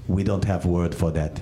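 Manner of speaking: put-on Bulgarian accent. Bulgarian guy answers deadpan.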